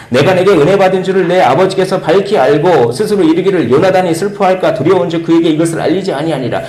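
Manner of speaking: loud, high solemn reading; preacher reading the Bible aloud; scripture reading. Acted. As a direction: proclaim the verse to the church.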